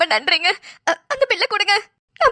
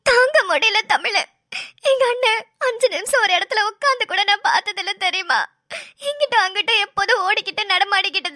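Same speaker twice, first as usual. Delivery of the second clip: crying. Acted. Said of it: "நீயும் இப்படி அழுதுகிட்டே இருந்தனா".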